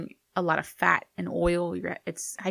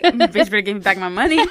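mock angry; 6 dB louder than usual. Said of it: "I'll be like".

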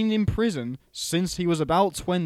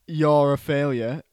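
mock shout; 2 semitones lower, 6 dB louder than usual. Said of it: "does he shout at Eddie".

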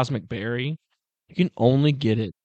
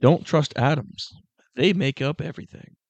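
joke-telling voice; 4 semitones higher than usual. Shown as a demonstration. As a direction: read it like a dad joke. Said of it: "This says".

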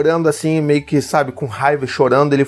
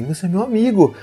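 lightly voiced small boy; 5 semitones higher than usual. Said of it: "começou a passar a mão no meu ombro".

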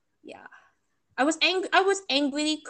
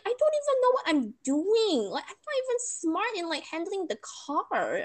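higher, pleading helpless voice; retelling the panic over handling the car, higher and pleading; helpless and upset; 8 semitones higher than usual. Retold or imitated. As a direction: whine it out like you're overwhelmed. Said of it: "And I'm just like".

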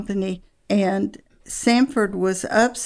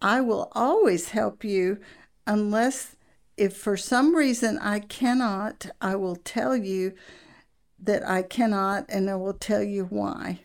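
lightly imitated calm husband. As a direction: retell the husband's even, patient reply. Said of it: "And very calmly he said".

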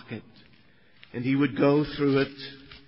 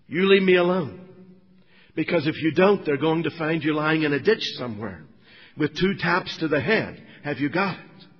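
retold angry threat, loud and raised at first; lost temper; 3 dB louder than usual. Young man threatening his Christian workmate to leave him alone, angry. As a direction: act out a temper, hard opening then easing. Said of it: "I lost my temper with him".

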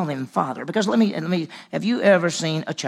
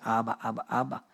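put-on childlike calling; 5 semitones lower, 5 dB quieter, faster than usual. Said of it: "They say".

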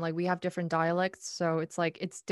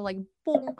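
"boom" punched higher like French; mock French sound; 7 semitones higher than usual. Shown as a demonstration. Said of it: "it just sounds so".

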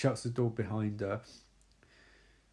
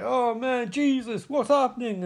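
high-pitched mock panic, louder; panicked; 11 semitones higher, 5 dB louder than usual. Police partner panicking as Rod hangs, high squeaky mock panic. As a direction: squeal it like a flustered cop. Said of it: "And Garcia's like".

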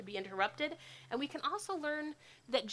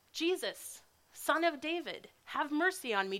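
raised, higher voice calling out for mercy; blind man yelling; 5 semitones higher than usual. Acted. Blind beggar calls to passing Jesus, raised voice. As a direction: call out to Jesus from the roadside. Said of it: "he starts to yell this".

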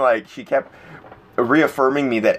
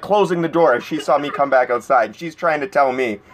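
normal talking voice

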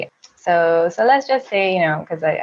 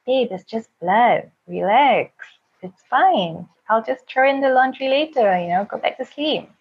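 higher, lightly acted soothing tone; retold easygoing reassurance; 6 semitones higher than usual. Partner reassuring her about the sheets, easygoing retold voice. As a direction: brush it off kindly, imitating a relaxed partner. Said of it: "he just starts laughing and he hugs me".

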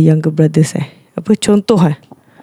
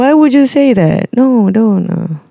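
higher-pitched chiding without real anger; gentle reproach; 5 semitones higher than usual. Retold or imitated. Speaker calling out parents as a friend, mild reproach. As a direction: plead with them, pitched up, not scolding. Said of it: "not like macam marah dia orang lah".

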